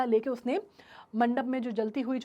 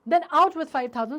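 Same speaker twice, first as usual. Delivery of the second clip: curt demand; 2 semitones higher, 5 dB louder, much slower than usual. Acted. Groom's father demands money.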